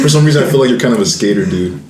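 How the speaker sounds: laid-back skater dude delivery. Real, not acted. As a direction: say it like a chill skater bro. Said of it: "Why'd you say it like a skater dude".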